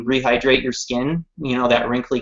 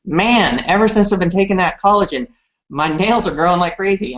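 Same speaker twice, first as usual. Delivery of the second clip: higher, nasally Minneapolis twang; twangy Minneapolis accent; 7 semitones higher than usual. Retold or imitated. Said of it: "kind of twangy or, like, nasally voice".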